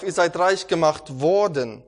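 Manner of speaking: preacher hammers home that the gift is already given: slow, loud stress on "worden"; emphatic stress. Real, not acted. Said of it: "hier liegt wieder die Betonung darauf".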